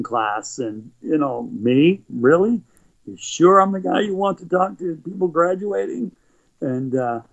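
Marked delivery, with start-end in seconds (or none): 1.5-6.1 high, disbelieving questions; can't believe they picked him; incredulous. Retold or imitated. A speaker doubting he should address graduates, incredulous.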